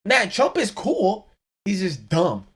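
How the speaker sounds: high, slow, mocking voice of a fan; mock Trump fan. Podcaster mocking a fan's lazy praise, high and slow. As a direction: mimic a fan brushing it off. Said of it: "being like".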